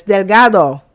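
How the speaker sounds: put-on "delgado" with a Spanish accent. Quoting best friend correcting her surname, Spanish accent. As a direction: say "delgado" as a Spanish speaker would. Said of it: "it's with the accent".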